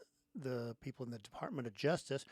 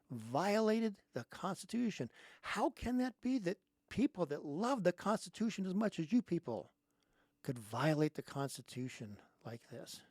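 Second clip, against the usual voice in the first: mocking; 5 semitones higher than usual. Mocking Democrats' hypocrisy.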